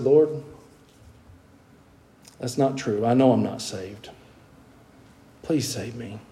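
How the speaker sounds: softly, almost under the breath, confessing; a small boy's hushed plea to God; quiet prayer. Retold or imitated. Boy praying to the Lord, quietly pleading.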